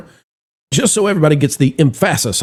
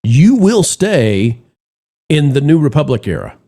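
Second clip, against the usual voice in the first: stern decree. Retold or imitated. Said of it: "important enough to say".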